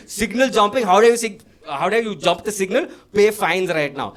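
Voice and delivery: lightly acted police reprimand; angry cop. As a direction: bark it like an indignant traffic cop. Cop's acted order at stopped car.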